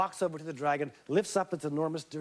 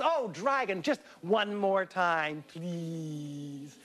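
sweet coaxing; much slower than usual. Acted. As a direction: coax him one more time. Elizabeth coaxing.

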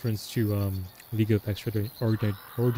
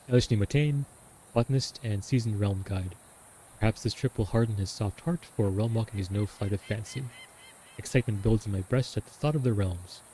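dramatic diary reading. Acted. Reads the diary aloud.

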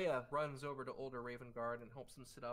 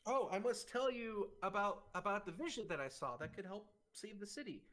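put-on eager old man; 8 semitones higher than usual. Old Raven Guard eager to tell.

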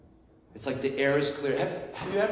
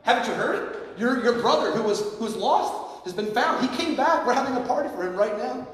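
excited servant; 7 semitones higher than usual. Retold or imitated. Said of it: "And he says".

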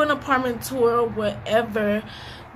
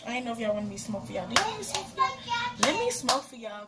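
high and relaxed; lazy stoned talk; stoner; 3 dB quieter than usual. Real, not acted. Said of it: "I'm high right now".

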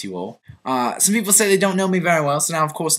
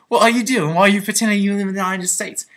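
incredulous half-brother; 5 semitones higher, 3 dB louder than usual. Retold or imitated. Acts out brother's reproachful phone call.

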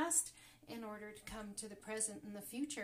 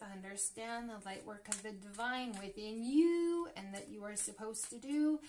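ordinary talk

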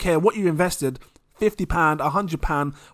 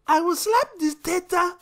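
high voiced scolding mum, mock stern; a mother threatening her child, hammed-up; mum telling off a kid; 13 semitones higher than usual. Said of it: "she don't say Theta".

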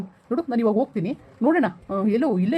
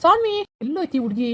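higher calls of the name, rising at the end; calling out; 5 semitones higher, slower than usual. Acted. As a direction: search and call for her. Father calls for missing girl. (ಹುಡುಕುತ್ತಾ ಹೆಸರು ಕೂಗುವುದು)

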